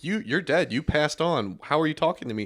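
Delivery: disbelief. Retold or imitated. Acting out dad's disbelief in dream.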